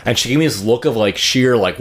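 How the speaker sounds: ordinary talk, nothing marked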